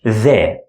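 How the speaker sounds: the with a voiced th as in this. Shown as a demonstration. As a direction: buzz the th. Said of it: "voiced English T H sound".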